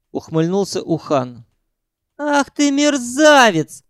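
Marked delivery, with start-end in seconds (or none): 2.2-3.8 high, loud, slow shriek. A narrator's reading. Sanyok shrieking as he shoves Ukhan. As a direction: shriek it out in fury. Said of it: "взвизгнул Санёк".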